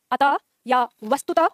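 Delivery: अतः and वस्तुतः said slowly, each final visarga breathed out clearly; teacher slowly sounding out अतः and वस्तुतः; slow visarga words. Shown as a demonstration. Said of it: "विसर्ग से संबंधित शब्द".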